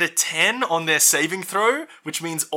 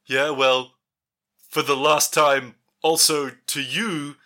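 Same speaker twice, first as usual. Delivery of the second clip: defiant Trent voice; much slower than usual. Acted.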